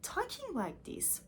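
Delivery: surprised. Retold or imitated. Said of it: "I was really surprised".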